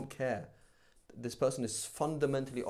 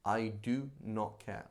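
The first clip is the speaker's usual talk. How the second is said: heartless indifference; slower than usual. Retold or imitated. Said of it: "I could not care less about anybody".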